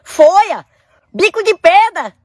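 high, slow incredulous question; can't believe what he heard; shocked disbelief. Acted. Shocked at leaves and stones.

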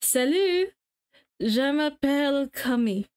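a hint of a French accent, lightly put on. Streamer trying French for chat, lightly accented. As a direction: greet them the French way. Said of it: "do you want me to speak".

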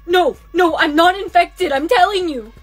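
loud, insistent protest; panicked denial. Acted. Accused girl denying infection, loud and panicked. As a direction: protest for your life.

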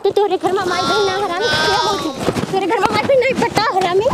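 irritated village-woman telling-off; angry scolding. Real, not acted. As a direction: scold him and brush him off. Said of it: "गुस्सा काहे हो रही है".

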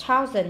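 "Thousand" stressed on "Thou"; first-syllable stress. Shown as a demonstration. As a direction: put the weight on "Thou" in "Thousand". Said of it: "nhấn âm một".

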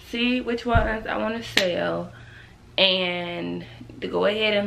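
talking around a retainer; slightly lispy retainer speech; wearing a retainer. Real, not acted. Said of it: "this retainer is, like, irritating me".

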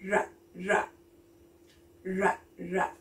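"R" as a low growled rrr; letter sound R. Shown as a demonstration. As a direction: hold "R" as a long rolling rrr. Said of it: "what's the sound for the letter R".

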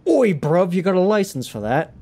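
punchy slangy British challenge; classic British accent. Acted. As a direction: call them out in mock British slang. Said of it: "then there's the classic".

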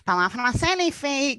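a touch of a fed-up mother nagging; annoyed mother imitation. Mother scolding her daughters to speak French, mildly annoyed. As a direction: nag like a tired mom, lightly. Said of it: "t'entends même le son de noyance".

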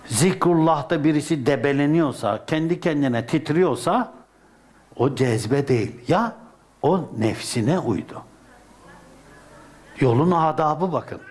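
ordinary talk

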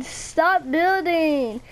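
slow, stretched STOP BUILDING; drawn-out protest. Real, not acted. Gamer protesting a friend's building, drawn-out complaint.

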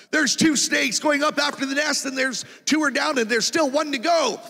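loud, high prophetic cry; prophesying. Retold or imitated. Preacher to the congregation, prophesying in a loud high cry. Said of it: "and I start to prophesy".

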